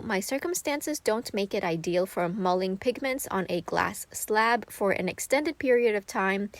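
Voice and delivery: ordinary talk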